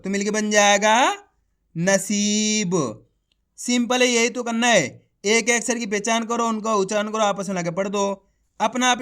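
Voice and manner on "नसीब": नसीब drawn out slowly, syllables joined; धीरे-धीरे खींचकर नसीब; slow blended reading. Shown as a demonstration. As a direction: stretch नसीब slowly so the child hears each sound. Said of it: "एक बार फिर से देखिए".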